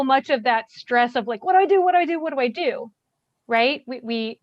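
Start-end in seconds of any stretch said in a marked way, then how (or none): 1.4-2.9 mock panic, louder and higher then fading; frantic self-questioning that fades out; panicked repetition. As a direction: fret out loud, winding down from frantic. Mimicking panicked bystander.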